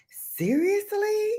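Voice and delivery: high, slow exasperated seriously; fed-up pet owner; incredulous. Real, not acted. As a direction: drag it out in disbelief. Hearing dog whine again.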